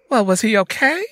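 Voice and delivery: high, loud anxious question; worried, near tears. A narrator's reading. Sister asks after Daddy, worried. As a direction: ask with rising worry. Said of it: "feeling tears swelling up".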